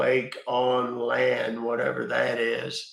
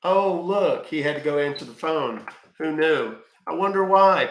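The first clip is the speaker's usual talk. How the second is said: sarcastic mock surprise, pitched up; 3 semitones higher than usual. Real, not acted. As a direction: feign amazement, dripping sarcasm. Mocking the scammer who hung up.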